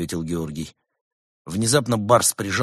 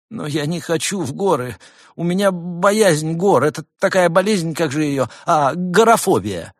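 higher, pleading little gopher; whiny gopher voice; 9 semitones higher, 6 dB louder than usual. A narrator's reading. Gopher begging the monk not to go to the mountains, higher and whiny. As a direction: wheedle like a scared rodent.

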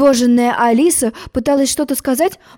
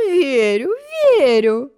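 reassuring; 5 semitones higher, slower than usual. A narrator's reading. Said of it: "успокоила её королева".

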